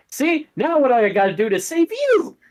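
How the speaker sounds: a mother scolding her son; scolding mom. Acted. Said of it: "She's like".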